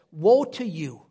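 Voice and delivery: hushed grave warning. Acted. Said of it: "he would say it like this".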